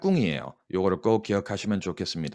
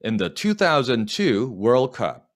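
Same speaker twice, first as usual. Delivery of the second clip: slow dictation; much slower than usual. Shown as a demonstration. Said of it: "시작".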